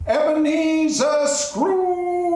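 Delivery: high, drawn-out ghostly call; eerie ghost voice. Acted. Marley's ghost calling Scrooge from afar, eerie and drawn out. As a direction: call him slowly from beyond the grave. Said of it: "and the eerie voice".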